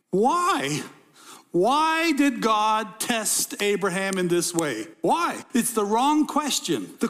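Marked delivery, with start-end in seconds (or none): 0.1-5.4 mock questioning protest. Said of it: "some people would say".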